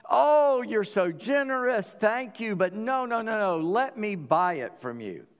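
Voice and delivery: overflow with false politeness, then insist; Abraham gushing at Ephron's generosity, then refusing; gushing polite refusal. Acted.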